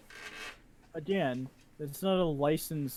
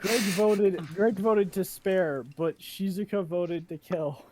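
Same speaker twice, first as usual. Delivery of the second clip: announcing loudly; 4 semitones higher, 4 dB louder, slower than usual. Acted. Announcing the vote result.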